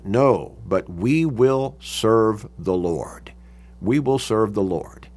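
slow, weighted insistence; emphatic pledge. Retold or imitated. People answering Joshua again, emphatic. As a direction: stretch out "we will serve", then settle. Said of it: "So emphatically".

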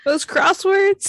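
put-on high, slow old-lady voice. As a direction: croon it like a granny. Old-person joke.

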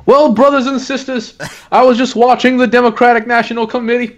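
a hint of a Sunday preacher; preacher impression. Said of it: "Yeah, I do impressions".

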